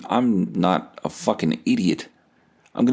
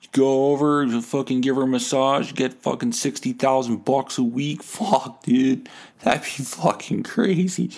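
loose, tipsy ramble, pitched higher, laughing near the end; drunk rambling; 4 semitones higher than usual. Retold or imitated. Drunk comic to friend about a sugar mama, in a giddy tipsy voice. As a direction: play the loaded guy gushing, slowing down on the last line. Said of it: "I was all loaded".

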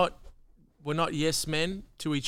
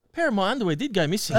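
fast, laughing punchline; 4 semitones higher, 4 dB louder, faster than usual. Real, not acted. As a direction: rush it out giggling. Joke told while laughing.

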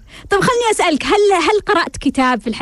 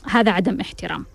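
lower, softer quoted complaint; quoting the wife; 5 semitones lower, 6 dB quieter than usual. Retold or imitated. Host quotes the wife's complaint in a low, soft voice. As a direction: mutter her complaint quietly, voice dropped low. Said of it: "تقول".

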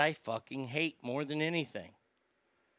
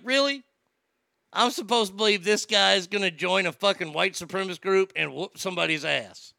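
incredulous; 3 semitones higher, 4 dB louder than usual. Retold or imitated. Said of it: "I was like".

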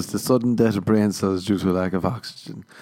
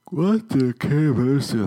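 mock puzzled drawl; 5 semitones higher, slower than usual. Mock puzzled question about Care Bears.

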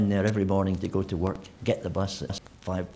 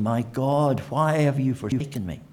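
a touch louder cry of anguish; mild mock shout; 4 semitones higher, 4 dB louder than usual. Preacher voicing Jesus crying out on the cross, mild anguished shout. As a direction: cry it out in abandonment, held back. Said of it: "He's been shouting".

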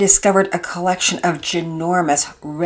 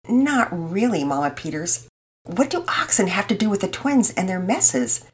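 genuine question. Acted. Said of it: "asked genuinely".

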